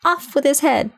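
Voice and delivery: high, shrill-free royal yell; shouting queen. A narrator's reading. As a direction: scream the sentence, furious. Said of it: "and shouting".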